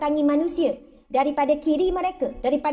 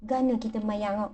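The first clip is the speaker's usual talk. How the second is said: ordinary talk, nothing marked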